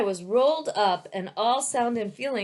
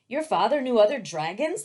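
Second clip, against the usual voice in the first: eager; 3 semitones higher, 4 dB louder than usual. Acted. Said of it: "the dragon asked eagerly".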